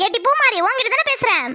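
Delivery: mother shouting for her daughter; yelling at daughter. Acted. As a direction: shout her name to get her attention. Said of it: "எதுக்காக கத்துற?".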